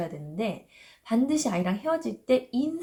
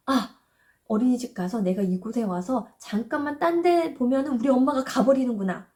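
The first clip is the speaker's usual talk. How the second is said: put-on anxious child; 3 semitones higher than usual. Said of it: "막 불안해하면서".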